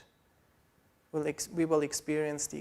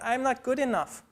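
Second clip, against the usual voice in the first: a mild, raised whine of self-pity; mildly voiced moaning complaint; whiny complaint; 5 semitones higher than usual. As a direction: complain like a tired man who gave up. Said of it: "And I start complaining".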